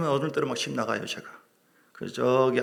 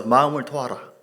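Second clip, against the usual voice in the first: louder call-and-response line; loud repeat; 6 dB louder than usual. Shown as a demonstration. Preacher leading the congregation in repeating, loud. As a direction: proclaim it for the congregation to echo. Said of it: "따라서".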